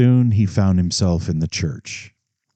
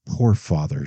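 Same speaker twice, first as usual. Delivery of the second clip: pitying; 2 semitones lower than usual. Acted. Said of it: "she said in a pitying way".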